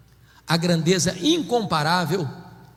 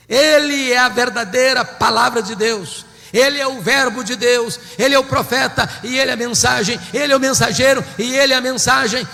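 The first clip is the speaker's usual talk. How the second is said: faster, building to a louder climax; rising preaching; 5 semitones higher, 5 dB louder than usual. Acted. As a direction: drive the refrain home harder each time.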